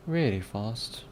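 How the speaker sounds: lightly done British accent. Shown as a demonstration. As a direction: try it in a different British accent. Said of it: "use a different British accent".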